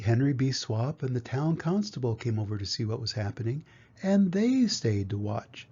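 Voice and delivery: put-on lively, clearly told children's story; picture-book reading. A narrator's reading. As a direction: read to young children with expressive swings of tune. Reads a picture book aloud.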